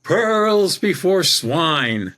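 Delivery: high, very slow imitated English accent. English psychic repeats her verdict to the speaker, drawn-out English accent. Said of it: "with her English accent".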